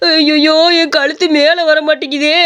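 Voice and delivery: slow strained moan; man stuck after the slap, slow and moaning; pained groan. Acted.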